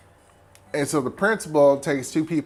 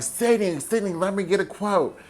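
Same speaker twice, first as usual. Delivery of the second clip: high-pitched, insistent calling; lightly acted reporter chasing someone; pushy reporter; 6 semitones higher than usual. Reporter asking Sidney for a quote, mock insistent.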